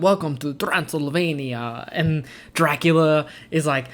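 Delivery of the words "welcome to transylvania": slow, creepy vampire welcome; creepy vampire greeting. Retold or imitated. Quoting the brides greeting the village, slow and creepy. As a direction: draw it out like a sinister vampire bride.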